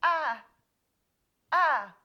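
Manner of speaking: loud drawn-out exclamation; mock casual call. Host demonstrating the Navajo phrase to a stranger, loud. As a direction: belt out the sound like a casual greeting. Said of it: "go up to someone and say".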